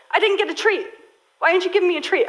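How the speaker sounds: a needy pet asking for her treat; dog's pleading voice. Retold or imitated. Dog begging her owners for a treat, mock pleading. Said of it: "and she says".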